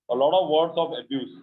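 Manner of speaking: very slow, word by word for the class; slow dictation. Shown as a demonstration. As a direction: spell it out slowly like dictation. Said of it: "teacher dictates model phrase". (बहुत धीरे, शब्द-शब्द बोलकर)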